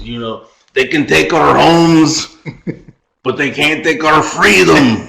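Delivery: put-on slow battle speech in a rough-and-ready Scottish accent; rally troops, dodgy Scottish accent; attempted Scottish accent. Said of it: "That was a Scottish accent".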